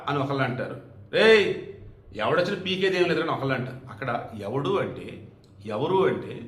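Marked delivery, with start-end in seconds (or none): 1.1-3.3 mock challenge. Second acted rough street challenge.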